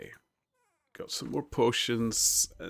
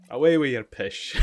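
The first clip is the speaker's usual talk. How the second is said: laughing; 4 dB louder than usual. Retold or imitated.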